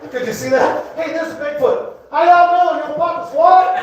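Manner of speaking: high, loud southern Bigfoot; southern accent. Acted. Bigfoot greeted in the woods, loud high southern accent. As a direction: holler it like a friendly southerner. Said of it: "gave the Bigfoot a southern accent".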